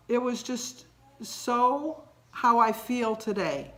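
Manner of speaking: slow, choked-up and close to crying; holding back tears as she speaks; near tears. Real, not acted. Telling viewers a video moved her, voice close to crying. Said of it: "I gotta compose myself".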